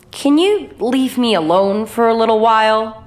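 a touch of distress; tremulous. Acted. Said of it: "tremulous quality of her voice".

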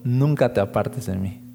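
quiet voice of God echoing back; a hint of a tender divine reply; God answering. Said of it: "recuerdo que me dijo".

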